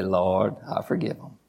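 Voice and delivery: low, softening mock prayer; mock resigned prayer. Preacher acting out forgiving a constant offender, low and resigned. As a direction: let it sink, half under the breath.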